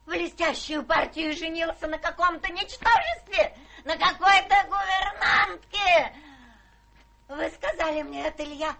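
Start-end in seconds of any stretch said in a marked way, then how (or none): 3.8-8.8 indignant outburst. Acted. Old lady in a rage.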